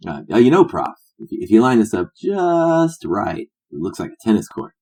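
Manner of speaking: lightly voiced drunk sidekick; a hint of a loose, chummy rogue; boisterous tennis star. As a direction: stretch it out with goofy pride. Plays McEnroe in script.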